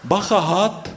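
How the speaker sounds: high-pitched mild alarm; warning. A narrator's reading. Bird Noha spots a snake ahead, warning.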